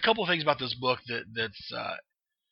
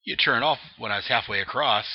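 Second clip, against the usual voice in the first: higher, louder punchline; mock outraged punchline; indignant outburst; 4 semitones higher, 5 dB louder than usual. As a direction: yell it like the scared lunatic. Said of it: "he says".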